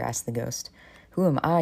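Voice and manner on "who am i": loud, high, disbelieving Who am I; shocked you'd even ask; indignant disbelief, raised voice; incredulous. Acted. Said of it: "you reply incredulously".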